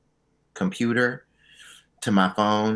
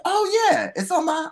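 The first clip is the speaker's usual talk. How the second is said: high sheepish voice. Retold or imitated. Quoting herself sheepishly.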